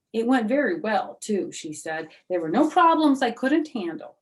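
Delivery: put-on high, loud eager little girl voice; high, bright know-it-all girl; bragging May. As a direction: show off like a know-it-all schoolgirl. May boasting.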